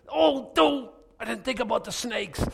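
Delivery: high, thin, fretful whine; whiny mock believer. Preacher mocking a believer scared of snakes, high whine. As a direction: whimper as if caught off guard.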